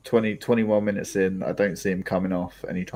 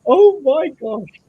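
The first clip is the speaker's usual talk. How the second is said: high squealing excitement; excited shriek; 11 dB louder than usual. Real, not acted. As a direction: shriek with joy at the goal. Reacts to goal, shrieks.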